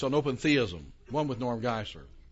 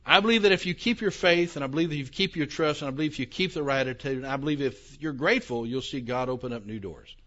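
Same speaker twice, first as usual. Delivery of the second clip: mock preacher. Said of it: "mental acumen of one of your pastors".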